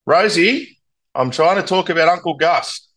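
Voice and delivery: high-pitched appeal to a pet; sing-song pet-owner voice, pitched well up; talking to the dog. Real, not acted. Pleading with the dog mid-interview.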